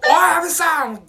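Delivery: high, hammed-up angry yelling; mock furious rant. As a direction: play the cheated student blowing up at the prime minister. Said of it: "みたいな言い出したから". (騙された留学生が高い声で大げさにわめく)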